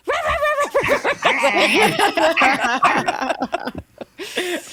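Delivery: loud, high, rapid mock dog barks; imitated barking. Sketch women passing with their dogs, imitated barking. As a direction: burst into yapping like a dog. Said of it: "the women just go".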